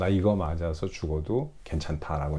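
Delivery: normal talking voice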